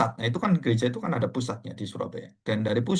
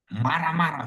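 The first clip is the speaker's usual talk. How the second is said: "Marah-marah" stretched and raised high; 5 semitones higher than usual. Retold or imitated. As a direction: lean on "Marah-marah" with raised pitch. Dramatizes the man's angry arrival.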